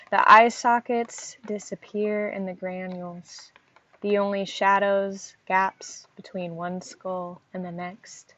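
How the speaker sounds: measured poem recital with even pitch; weighted phrases, each line falling away at its end; poetry reading. Acted. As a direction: read the poem line by line, pausing between phrases. Reads own poem aloud.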